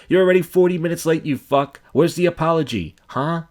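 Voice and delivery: high, loud mock confrontation; indignant telling-off. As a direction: demand an apology, worked up. Acted telling-off of late repairman.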